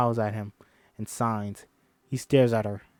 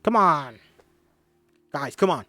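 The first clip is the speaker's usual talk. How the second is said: exasperated teacher; 3 semitones higher than usual. Acted. Teacher scolding teenagers.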